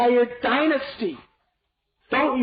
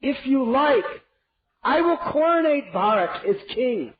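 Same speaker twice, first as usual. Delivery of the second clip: much higher, desperate pleading; begging; 9 semitones higher than usual. Acted. King at queen's feet, begging desperately. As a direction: beg her on your knees. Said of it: "he begged her".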